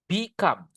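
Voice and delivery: "Become" with the weight on "come"; stress on second syllable. Shown as a demonstration. Teacher introducing a two-syllable verb, stress on "come" in "Become". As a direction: lean on the second half of "Become". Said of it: "Penekanannya nanti, guys, di suku kata yang kedua".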